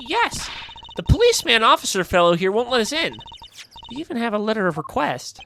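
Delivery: put-on high, rapid, eager girl voice; excitable girl character, complaining. Girl telling Gavin the policeman blocks them, high eager complaint. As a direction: rattle out the complaint high and fast.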